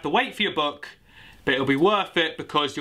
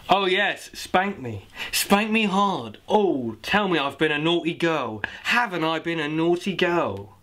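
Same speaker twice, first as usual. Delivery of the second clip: slow, drawn-out mock seduction; hammed-up lady voice; slower than usual.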